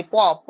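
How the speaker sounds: প popped twice off closed lips; lip-to-lip sound. Shown as a demonstration. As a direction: demonstrate প by itself, lips pressed then released. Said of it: "উচ্চারণ করলে সব ঠোঁটে ঠোঁটে". (ঠোঁটে ঠোঁট লাগিয়ে প উচ্চারণ)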